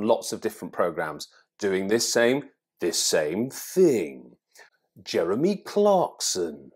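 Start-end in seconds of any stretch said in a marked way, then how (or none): 2.8-6.7 whispered aside. Real, not acted. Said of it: "whispered aside".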